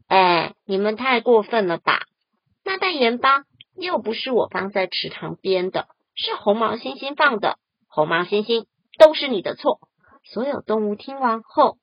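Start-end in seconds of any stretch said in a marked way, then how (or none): 0.1-9.8 响亮地抱怨，最后高声指责; 气冲冲地把错推给别人; 不高兴. Acted. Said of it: "很不高兴地说". (不高兴地嚷)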